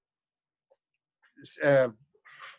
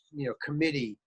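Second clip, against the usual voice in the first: usual speaking voice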